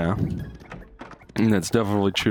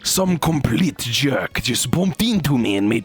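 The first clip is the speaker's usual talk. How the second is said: mock German accent; 4 semitones higher than usual. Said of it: "I was trying to do German".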